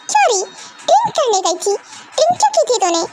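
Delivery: high, scolding confrontation; scolding mother. Acted. Mother confronts her hungover daughter, high and sharp. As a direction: grill her like an angry mum.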